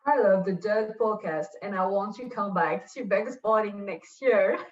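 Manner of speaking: French speaker trying a British accent; attempted British accent. Shown as a demonstration. Guest obliges host's request for her best British accent, attempted British accent. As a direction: have a go at British English, French accent showing through. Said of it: "in your best British accent".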